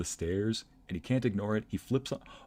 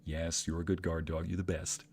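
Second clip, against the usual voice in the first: cooing at the dog; 3 semitones lower, 5 dB quieter than usual. Retold or imitated. Reassuring the dog.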